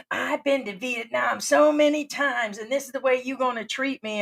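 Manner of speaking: mild mock of a self-important expat; mocking the tourist. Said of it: "everybody's a professional travel".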